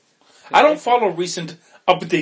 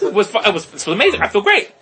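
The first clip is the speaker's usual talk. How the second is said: higher, louder, gushing review; put-on elation, pitched up; mock delighted; 4 semitones higher, 4 dB louder than usual. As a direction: gush as if thrilled. Acting out a positive test reaction.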